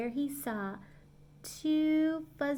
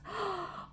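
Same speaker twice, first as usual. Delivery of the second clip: gasp; 8 semitones higher, 9 dB quieter than usual. Acted. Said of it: "Corduroy gasped".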